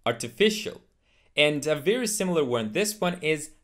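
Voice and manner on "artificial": ARTIFICIAL ending in a single "shul"; correct artificial. Shown as a demonstration. Teacher modelling artificial for learners, ending shul. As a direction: say "artificial" as "ar-tuh-FISH-ul". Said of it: "it's actually artificial".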